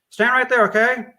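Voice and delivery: loud, high command to stay put; firm order. Acted. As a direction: plant them where they stand. Cop orders bystanders back.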